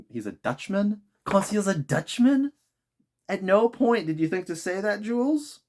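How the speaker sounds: high, baffled aside; incredulous. Real, not acted. Reader protests to the author, genuinely baffled. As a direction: reader protests to Jules Verne in disbelief. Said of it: "incredulous aside to the author".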